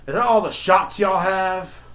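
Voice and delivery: high, slow, drawn-out mock complaint; complaining customer. Customer complains to the clerk about the shots, whiny. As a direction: imitate a dissatisfied customer.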